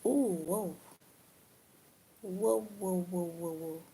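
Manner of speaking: startled whoa. Real, not acted. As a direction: caught off guard by something. Startled reaction on stream.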